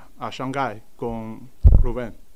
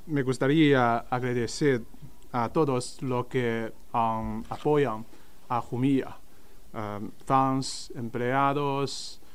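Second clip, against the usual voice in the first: learner Spanish accent. Real, not acted. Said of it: "mi español no es bueno".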